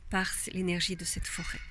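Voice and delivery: normal talking voice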